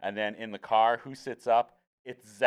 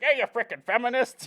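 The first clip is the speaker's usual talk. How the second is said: put-on very high-pitched old man voice, sudden outburst; 14 semitones higher than usual. Retelling a show's newly added old man character's line: Grandpa Buzz impression. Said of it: "they just brought in this old man character".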